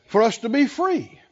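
ordinary talk

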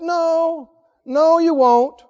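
dismissive contradiction. Retold or imitated. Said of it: "Have you ever heard that?".

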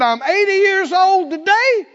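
put-on old Caleb shouting his claim; bold demand. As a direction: claim the mountain with gusto. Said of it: "He said".

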